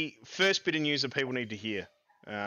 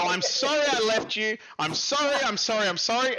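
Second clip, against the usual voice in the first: higher-pitched, repeated mock pleading; pleading apology; 5 semitones higher than usual. Sport runs back to the players it left, mock pleading. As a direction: grovel in a hammed-up apology.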